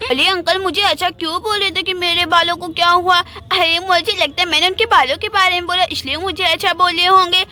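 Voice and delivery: put-on childish lisping chatter; little girl Gudiya. Girl hurrying to fetch milk before school, childish lisp. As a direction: talk like a small lisping girl.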